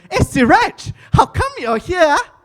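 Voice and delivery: little Xiao Mei calling out to Siraj; mock little girl. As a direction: squeal it like a cute schoolgirl. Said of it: "she like".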